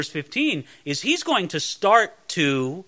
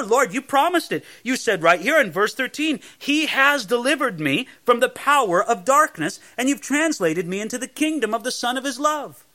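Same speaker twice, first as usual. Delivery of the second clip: higher-pitched, insistent appeal to God; confident claim; 5 semitones higher than usual. Acted. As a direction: claim the promise with assurance. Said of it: "That's a real confidence you can have".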